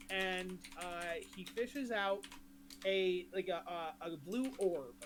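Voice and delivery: ordinary delivery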